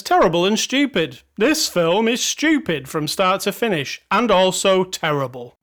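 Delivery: slightly emphatic, slowed reading of a scathing review; mock-serious reviewer; performed review reading. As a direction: deliver the verdict deliberately. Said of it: "this guy says".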